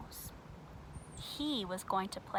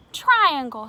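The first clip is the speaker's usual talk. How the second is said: high, loud suspicious call; 5 semitones higher, 14 dB louder than usual. Acted. Square realizing who is at his door, high suspicious call. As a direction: call out, suspecting the trick.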